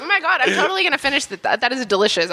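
talking while chewing; words round a bite of food; mouth full. Real, not acted. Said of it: "I just can't talk while I'm eating it".

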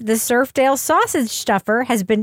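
lightly dramatized news report; mock news read. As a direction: read a silly crime story as serious news.

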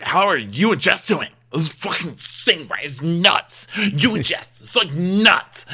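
high and loud, amazed; hyped bro voice. Retold or imitated. Austin gushing to Corey about Jess, high and hyped.

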